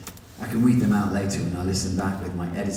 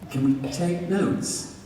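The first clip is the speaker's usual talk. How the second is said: high, slow tiny voice; 10 semitones higher, slower than usual. Acted. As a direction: ask it in a small meek voice. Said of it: "he says in a tiny voice".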